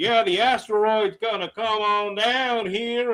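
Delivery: high rural twang voice. Mocking a scientist character in Armageddon: Billy Bob Thornton hillbilly voice. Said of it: "this fucking hillbilly".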